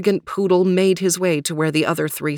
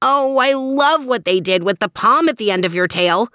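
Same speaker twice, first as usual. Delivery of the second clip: high-pitched, lively fawning over a haircut; gushing compliment; 7 semitones higher, 4 dB louder than usual. A narrator's reading. Theo admires Max's freshly cut tail, gushing. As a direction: gush it, pitched well up.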